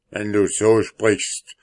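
laut und grimmig gerufen. Acted. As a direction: der Zwerg droht wütend. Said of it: "rief grimmig der Zwerg". (grimmiger Ruf des Zwergs)

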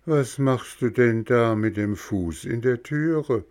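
lightly voiced high snail calling down. Schnecke fragt Bengele. (leicht höhere Schneckenstimme)

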